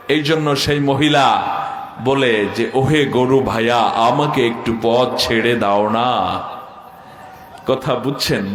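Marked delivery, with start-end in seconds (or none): 2.7-6.4 polite refined woman. Retold or imitated. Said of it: "শুদ্ধ ভাষার ছোঁয়া লেগেছে".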